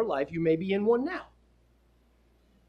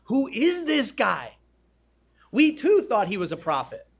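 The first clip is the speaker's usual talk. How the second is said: higher, emphatic mock astonishment; acted bewilderment; 4 semitones higher, 4 dB louder than usual. Disciples asking amongst themselves who he is, acted bewilderment. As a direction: play baffled followers, stretching the question.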